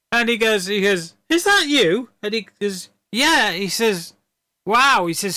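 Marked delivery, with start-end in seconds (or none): 1.3-2.1 high-pitched, incredulous question; surprised recognition. Acted. Vampire recognises friend in retold scene. 3.1-3.5 high-pitched, perky reply; eager confirmation. Acted. Other vampire's eager answer, acted. 4.7-5.1 higher, louder exclamation of wonder; acted amazement. Vampire's mock amazement in retold scene.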